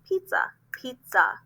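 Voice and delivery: pizza said in two clear beats; syllable beats. Shown as a demonstration. Teacher to parents, clapping syllables. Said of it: "two syllables".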